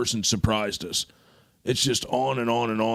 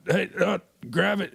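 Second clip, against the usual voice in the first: high, sharp call to grab the rod; urgent call; 9 semitones higher than usual. Retold or imitated. On the boat, calling to the others to grab it, high and urgent. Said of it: "I'm looking around going".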